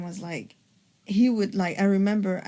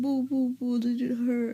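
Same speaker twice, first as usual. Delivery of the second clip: put-on higher, teasing baby-talk pity; mock sympathy; 4 semitones higher than usual. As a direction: coo with fake pity. Mocking baby sympathy for partner's pain.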